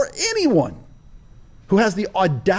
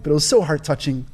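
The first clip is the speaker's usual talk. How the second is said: sarcastic. Retold or imitated. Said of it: "I say it with sarcasm".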